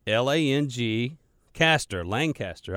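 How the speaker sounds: L A N G, then Caster, then joined as LANG-caster; local pronunciation spelt out. Shown as a demonstration. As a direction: spell out the first half of Lancaster with a G, then say LANG-caster. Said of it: "imagine that there's a G there before the C".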